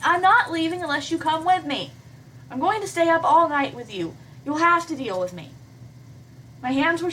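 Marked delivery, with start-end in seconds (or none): 0.0-5.5 higher and firm, stubborn heroine; determined Hannah. Acted. Hannah refuses to leave PBG alone, stubborn and firm. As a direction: dig in, higher and insistent. Hannah stands her ground.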